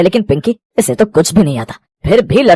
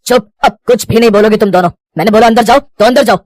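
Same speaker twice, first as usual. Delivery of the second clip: angry scolding; 4 semitones higher than usual. Acted. Brother scolds quarrelling sisters.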